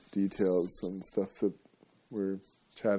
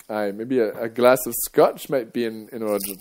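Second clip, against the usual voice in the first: put-on Scottish accent; 8 dB louder than usual. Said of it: "I have to work on my accents".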